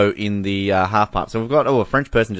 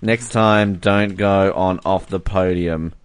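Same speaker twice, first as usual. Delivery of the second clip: low, measured read-back; slow it down as if typing each word; slow dictation; 4 semitones lower, slower than usual. Real, not acted. Host typing Uma Thurman's fan message, slow dictation.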